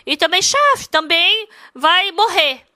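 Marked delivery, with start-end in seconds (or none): 0.4-0.9 "chave" as "shef" in an English accent, pitched high; English-accented "chave" with no final vowel. Shown as a demonstration. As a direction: anglicise "chave", higher, ending on an f. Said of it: "só porque você fala bem inglês".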